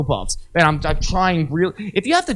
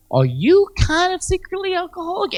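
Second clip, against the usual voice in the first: high pointed question; needling the friend; mock challenging retort; 14 semitones higher than usual. Speaker challenging a friend who urges him to drink.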